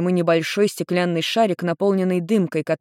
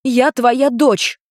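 higher, louder, very slow insistence; emphatic insistence; 7 semitones higher, 5 dB louder, much slower than usual. Acted. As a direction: lay each word down firmly. Girl insists, slowly.

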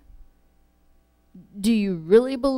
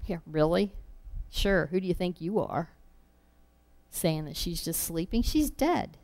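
mocking ridicule; 6 dB quieter than usual. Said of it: "then they ridiculed him".

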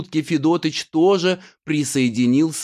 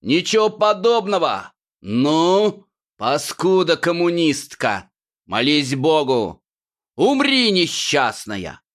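a touch higher hammed-up menace, slowing at the end; stage villain threat; 4 semitones higher than usual. The groom threatens Annushka.

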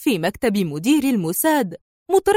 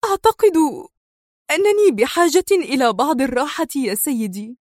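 choked voice; 3 semitones higher than usual. Acted. Sonia to the Mossad director, mildly choked up. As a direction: hold back tears as you speak. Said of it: "وغمغمت في صوت مختنق".

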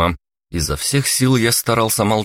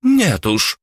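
sharp high exclamation, louder; exclaiming; 10 semitones higher, 4 dB louder than usual. Acted. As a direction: cut her daughter off sharply. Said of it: "воскликнула графиня".

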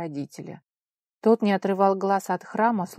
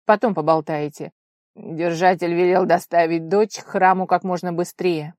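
curt insistence; 8 dB louder than usual. Acted. Fiancé brushing off friend.

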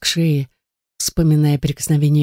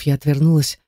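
ordinary delivery, nothing marked

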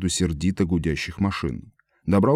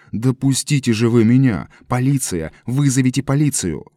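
louder, higher pleading yell; desperate shouting; 5 semitones higher, 5 dB louder than usual. A narrator's reading. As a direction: fight free and shout for help. Эд вырывается и зовёт полицию. (Эд вырывается из толпы и кричит, громко и высоко)

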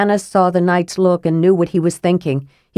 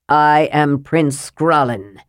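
slow, cold and commanding; a hint of a cold ghostly royal; stern, cold prince; 3 semitones lower, slower than usual. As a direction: announce yourself as a dead prince, slowly. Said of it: "his voice was stern and cold and not Flint's own".

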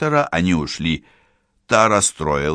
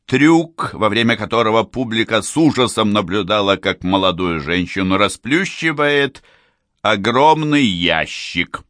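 booming circus ringmaster. Acted. Showman's patter before the trick.

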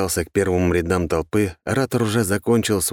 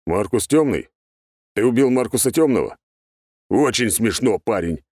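higher, skeptical disapproval; a thug unimpressed by the joke; disapproving; 4 semitones higher than usual. A narrator's reading. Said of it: "неодобрительно качнул тот головой". (неодобрительно, с недоверием)

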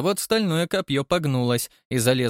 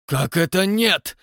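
loud, slow growling demand; menacing growl; 6 semitones higher, 4 dB louder, slower than usual. A narrator's reading. Father growling at his son, menacing. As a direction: growl it out, threatening. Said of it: "прорычал страшным голосом".

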